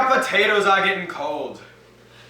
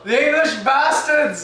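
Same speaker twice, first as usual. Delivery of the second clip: mock outrage; 6 semitones higher, 4 dB louder than usual. Mother curses the English.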